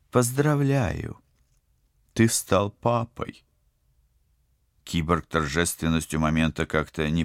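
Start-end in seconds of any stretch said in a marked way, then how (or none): 0.1-3.4 high, very slow, ghostly announcement; sepulchral voice. Acted. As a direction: announce it like a voice from the grave. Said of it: "загробным голосом объявила".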